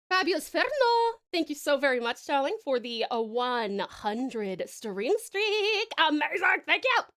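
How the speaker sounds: loud bright gushing thanks; effusive thanks. Real, not acted. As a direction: gush over the donor. Greeting donor effusively.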